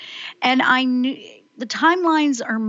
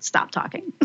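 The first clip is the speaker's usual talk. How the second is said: laughing self-scold; 9 semitones higher, 6 dB quieter than usual. Retold or imitated. Host mocks telling herself to stop.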